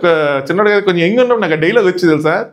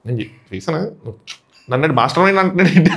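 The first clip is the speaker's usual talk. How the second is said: bewildered contestant. Retold or imitated.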